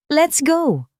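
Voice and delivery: loud, high, urgent snap; quick sharp reply. A narrator's reading. Angelo pulling Cassandra out of the store, loud and urgent. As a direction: cut it short and get out now. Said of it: "Mabilis na sagot ni Angelo".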